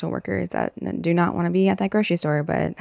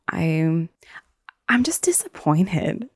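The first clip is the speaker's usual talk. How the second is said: a breathy whisper, pitched up and slowed; whispered disappointment; slower than usual. Real, not acted. Talking to camera about careless people, whispering sadly. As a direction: let the disappointment drop to a whisper.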